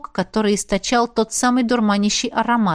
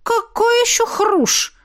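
much higher, slow outraged question; indignant; 13 semitones higher, slower than usual. A narrator's reading. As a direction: squeal it out in outrage. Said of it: "возмутилась женщина".

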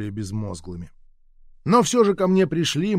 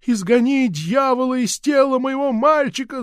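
high, loud cry for exorcism; mother's shout; 11 semitones higher, 4 dB louder than usual. A narrator's reading. Mother shouting her plea to cast out the devil, high and loud. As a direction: shout the command at heaven. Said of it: "закричала мать".

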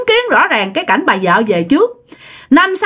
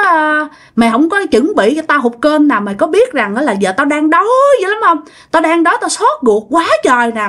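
retold cursing husband; 3 semitones higher than usual. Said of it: "mọi người mới nghe tiếng ổng chửi".

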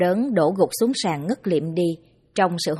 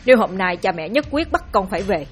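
shaky determined voice. Acted. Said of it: "Anh run run giọng quyết liệt mà nói".

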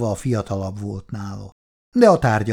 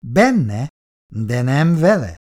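higher, louder peevish challenge; crossly; 4 semitones higher, 6 dB louder, slower than usual. A narrator's reading. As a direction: throw it back, piqued. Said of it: "mérgeskedett Péteri". (mérgeskedve)

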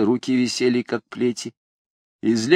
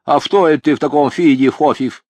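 toothless mumble; 4 semitones higher, 5 dB louder than usual. A narrator's reading. Toothless old man lisps.

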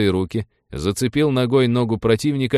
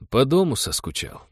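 justifying himself; 3 semitones higher than usual. Acted. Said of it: "оправдываясь".

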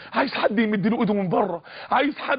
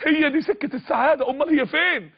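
inner voice yelling; 5 semitones higher than usual. Retold or imitated. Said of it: "صوت بيصرخ في وداني".

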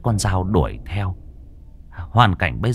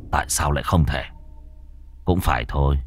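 cold contempt; 5 semitones lower, 5 dB quieter, faster than usual. Acted. Son answers with contempt.

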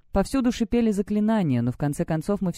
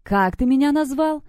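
much higher, emphatic repeat; angry insistent demand; 8 semitones higher, 4 dB louder than usual. A narrator's reading. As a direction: hammer it out word by word. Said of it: "стала топать ногой в такт своим". (гневно, чеканя слова)

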